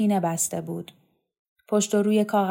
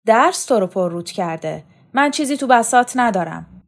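defensive retort; 3 semitones higher, 6 dB louder than usual. Acted. Mother retorts to angry son.

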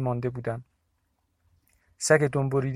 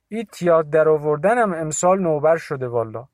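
Bibi's voice; 3 semitones higher, 7 dB louder than usual. A narrator's reading. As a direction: call out a worried blessing to the visitor. (صدای پیرزن، بلند و نگران)

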